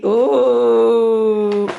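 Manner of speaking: surprised oh. Real, not acted. Bonnet falls again.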